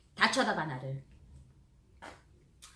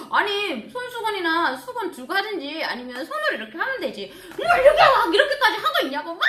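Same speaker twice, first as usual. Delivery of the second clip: a friend laughing at you, higher; laughing friend quote; 8 semitones higher, 5 dB louder than usual. Retold or imitated. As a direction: teman menirukan sambil tertawa. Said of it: "막 웃으면서 막 그러는 거예요".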